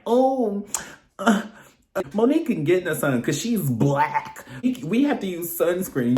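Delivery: high, airy mock of a clueless white kid; sneering impression of a white schoolgirl; mocking white classmate. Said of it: "saying like".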